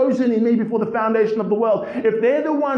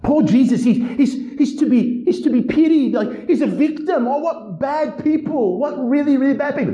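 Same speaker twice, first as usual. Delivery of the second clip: mocking pity with a laugh, pitched up; pitched-up mocking lament; 5 semitones higher than usual. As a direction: parody the sentimental film crowd. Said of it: "create in the heart of people this".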